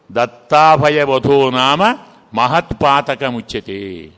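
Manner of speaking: slow, measured Sanskrit recitation; slow chanted scripture line; recited verse. Acted. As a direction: intone the shloka deliberately.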